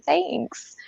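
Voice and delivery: soft mock-creepy whisper; breath-only aside of thanks. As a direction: whisper it like a secret watcher. Mock thanks to dog owners.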